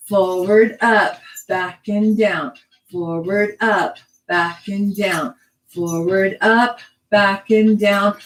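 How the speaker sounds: measured, rhythmic counting; dance cueing to music. Shown as a demonstration. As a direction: call each move evenly on the beat. Cues moves to the music.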